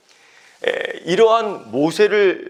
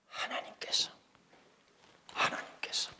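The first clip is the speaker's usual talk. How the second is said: soft unvoiced whisper of the answer; 13 dB quieter than usual. Pastor prompting the congregation, whispered. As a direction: breathe it out like a secret.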